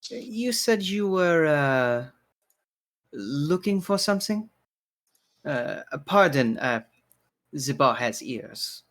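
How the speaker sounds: lightly voiced barkeeper, tentative and polite; courteous bartender, discreet. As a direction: probe gently as the bartender, with hesitant pauses. Bartender probes discreetly in character.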